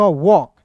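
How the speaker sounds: वॉक with a silent L; demonstrated pronunciation. Shown as a demonstration. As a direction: say वॉक as "wawk", no L sound. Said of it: "ए का उच्चारण औ के रूप में".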